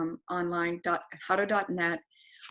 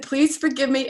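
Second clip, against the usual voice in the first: pleading apology; 7 semitones higher, 9 dB louder than usual. Retold or imitated. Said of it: "I said".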